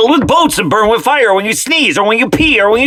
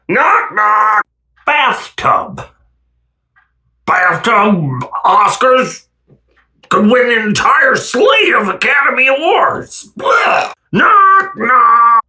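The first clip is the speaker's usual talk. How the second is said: mock sobbing; 2 semitones higher, slower than usual. Mock crying knock-knock jokes.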